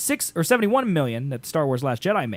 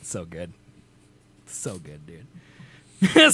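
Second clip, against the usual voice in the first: drawn-out creepy creature whisper; praying mantis voice; 8 semitones lower, much slower than usual. Pretend. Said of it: "just as good as my Mantis impression".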